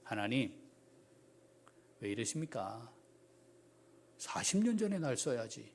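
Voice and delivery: soft, low reproach to God; wounded Moses murmuring to God; hurt complaint. Acted. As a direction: quietly ask why now. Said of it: "지금 모세는 어떤 감정일까요".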